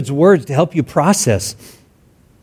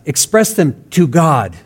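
"express them to God" slowly, with weight on "to God"; slow down and lean on "to God"; emphatic. Real, not acted. Preacher emphasizes where anger should go, slow stress on "to God". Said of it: "I want to emphasize".

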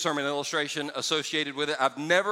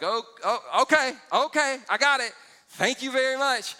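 tags 1; 8 semitones higher, 5 dB louder than usual. Retold or imitated. Mock eager acceptance.

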